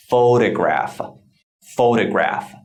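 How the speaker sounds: "Photograph" said whole and clearly, stress on PHO; careful model pronunciation. Shown as a demonstration. Teacher blending the sounds into a word, "Photograph" pronounced carefully. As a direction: model "Photograph" with a strong first syllable. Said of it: "the exact pronunciation of the word photograph".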